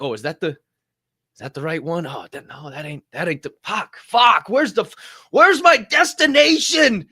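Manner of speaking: confused muttering that rises to a loud frustrated yell; frustrated search building to yell. Retold or imitated. Lost tenant searching apartment doors, building to a shout. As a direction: start unsure at the doors, end shouting.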